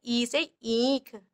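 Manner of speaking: slow, held ee in "ई से ईंख"; "ई से ईंख" said unhurriedly with long vowels; long ee sound. Shown as a demonstration. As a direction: stretch the ee at the start of "ईंख". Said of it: "तो आराम से बोला जाता है".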